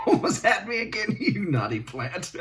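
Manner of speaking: high, bright teasing of the plant; playful teasing. Acted. Host teasing a naughty prop plant, playfully high. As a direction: tease the plant like a naughty pet.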